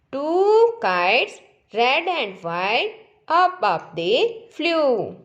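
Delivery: slow singsong recital, stretched vowels, lilting rise at line ends; poem recitation. Shown as a demonstration. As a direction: recite it slowly for children to repeat. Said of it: "ये यहाँ पर दे रखी है poem". (धीमा, लयबद्ध कविता पाठ)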